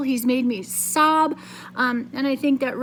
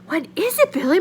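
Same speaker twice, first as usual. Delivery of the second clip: higher, anxious question; scared; 5 semitones higher, faster than usual. Acted. Mother asking Billy what happened, scared voice. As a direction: ask in alarm. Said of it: "Mama asked in a scared voice".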